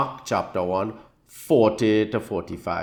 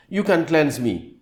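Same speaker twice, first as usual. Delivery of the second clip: higher-pitched plea; pleading; 5 semitones higher than usual. Acted. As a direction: plead with a lifted voice. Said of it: "He's pleading, he's begging".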